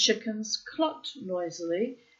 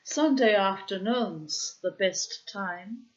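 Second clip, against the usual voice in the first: put-on Norwegian accent; 4 dB louder than usual. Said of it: "My Norwegian accent sounds very strange".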